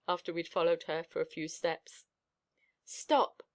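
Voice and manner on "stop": firm stop. A narrator's reading. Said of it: "said my master".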